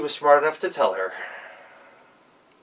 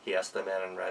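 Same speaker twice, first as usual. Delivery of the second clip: usual speaking voice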